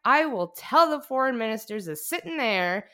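put-on loud, high, slow drunken orator; drunk speech. Vice president drunkenly ranting his inauguration speech, loud and slurry. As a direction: bellow it out like a plastered vice president. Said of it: "can I give you a little of the speech".

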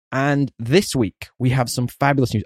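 slow, drawn-out Trump cadence; Donald Trump impression. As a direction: do a Trump news announcement. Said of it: "I went full Donald Trump then".

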